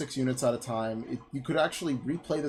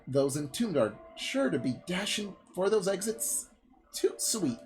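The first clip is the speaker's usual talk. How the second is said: lightly voiced breezy merchant, lively swoops; 3 semitones higher than usual. Merchant promising hero a reward, lightly acted breezy patter. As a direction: coax them with a touch of salesman's patter.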